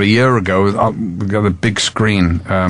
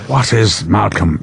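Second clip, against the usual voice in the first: put-on Irish accent; 2 semitones lower than usual. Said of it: "he came to me and he went".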